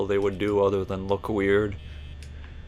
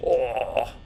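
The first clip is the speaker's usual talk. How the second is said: a lightly voiced Markiplier "Oh", close to his own voice; a quick, understated nod to Markiplier; Markiplier impression; 3 semitones higher than usual. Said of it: "That's my Markiplier impression".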